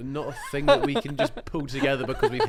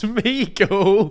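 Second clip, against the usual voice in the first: Bodondi voice; 6 semitones higher, 7 dB louder than usual. Acted. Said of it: "go to David Bodondi".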